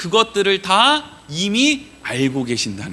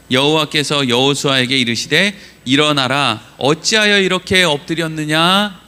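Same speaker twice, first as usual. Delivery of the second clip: scripture reading; 4 dB louder than usual. Acted. Reads the verse aloud.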